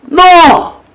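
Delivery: high, loud, sharp no; a loud outraged no; emphatic no. Real, not acted. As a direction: slam the idea shut with one word. Forceful rejection in political appeal.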